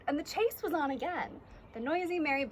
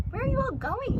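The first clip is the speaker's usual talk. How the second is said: higher and louder call across the shore; 11 semitones higher, 6 dB louder than usual. A narrator's reading. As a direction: call out to the running crowd. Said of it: "he called out".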